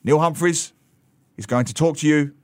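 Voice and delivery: a mild mock stern discipline master; lightly voiced stern introducer; imitating stern teacher. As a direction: announce it like a strict schoolmaster. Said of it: "will come out and say".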